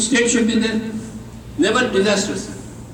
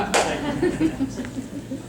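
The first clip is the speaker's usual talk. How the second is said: quiet, high chuckle; soft breathy laugh; 5 semitones higher, 8 dB quieter than usual. Real, not acted. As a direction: laugh lightly under the breath. Laughs after Buddha line.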